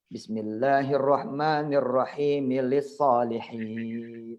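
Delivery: slow Quran recitation. Shown as a demonstration. Quoting an imagined Quran verse.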